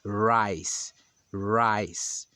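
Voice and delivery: rice with a dense English R. Shown as a demonstration. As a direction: rice said right. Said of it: "é rice". (rice correto em inglês)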